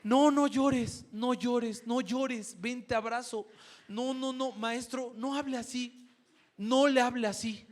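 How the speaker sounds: put-on baby the boy like an overprotective aunt; doting aunt comforting. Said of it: "La tía rápido".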